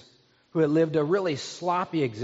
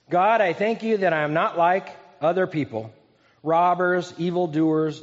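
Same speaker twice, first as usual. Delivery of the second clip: lightly voiced proud prayer; mildly boastful, reading out his merits; self-righteous Pharisee. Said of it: "Can you hear his tone?".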